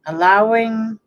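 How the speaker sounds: unhurried meditation guide, long pauses between phrases; guided meditation. Real, not acted. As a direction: ease the listener into relaxing, phrase by phrase.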